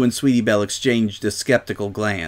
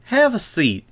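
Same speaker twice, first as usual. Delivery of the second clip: higher-pitched friendly welcome; warm invitation; 11 semitones higher than usual. A narrator's reading. Apple Bloom offers the visitor a seat, warmly. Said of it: "Apple Bloom said warmly".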